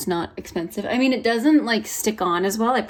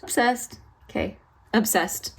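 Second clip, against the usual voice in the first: usual speaking voice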